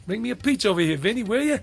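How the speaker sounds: loud, high, brash New York accent; New Yorker accent. Shown as a demonstration. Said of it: "the New Yorker accent".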